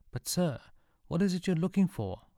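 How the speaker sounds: puzzled. Acted. Sean puzzled question.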